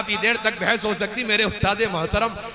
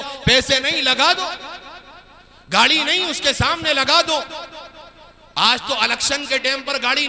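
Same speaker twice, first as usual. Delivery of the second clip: forceful, raised sermon delivery; preaching; 5 semitones higher than usual. Acted. Preacher scolding showy charity, preaching. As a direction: preach it out to the crowd.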